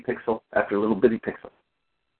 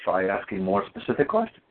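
lower, measured instruction; calm judge; 7 semitones lower, 4 dB quieter than usual. Retold or imitated. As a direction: quietly advise from the bench. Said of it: "the judge calmly looks at me and says".

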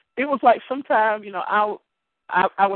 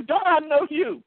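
raised-pitch, insistent retort; very stern; 6 semitones higher than usual. Retold or imitated. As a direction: insist firmly on being recognised. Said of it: "I said it very stern".

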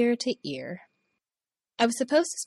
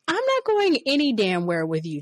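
higher, louder indignant refusal; angry refusal; 6 semitones higher, 5 dB louder than usual. Retold or imitated. Woman refusing boss's back room offer, loud anger. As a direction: refuse him flat out.

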